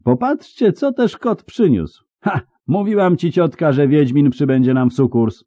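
put-on very high, insolent young voice; high, loud, impudent exclaiming; cheeky yelling. A narrator's reading. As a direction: crow brashly in a high pitch. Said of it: "wrzasnął nagle znajomy, bezczelny głos".

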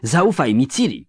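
high, pleading shout; Nimue. A narrator's reading. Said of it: "krzyknęła Nimue".

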